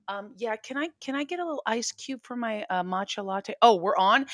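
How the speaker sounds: quiet, mild-mannered off-mic voice; off-air Jasmine Crockett. Acted. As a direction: murmur a polite coffee order, unperformed. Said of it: "this is Jasmine Crockett".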